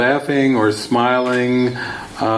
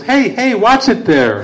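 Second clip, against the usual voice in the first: much higher, light mock complaint; mild annoyed hero; 8 semitones higher, 3 dB louder than usual. Bill Murray's character scolds his attackers, lightly mock annoyed. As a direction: brush it off like a mildly bothered actor. Hero gets something in eye.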